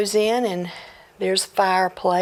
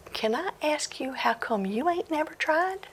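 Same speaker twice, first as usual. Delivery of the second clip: hushed question; 8 semitones higher, 7 dB quieter than usual. Acted. Boy asks slyly, hushed.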